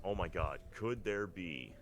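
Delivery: usual speaking voice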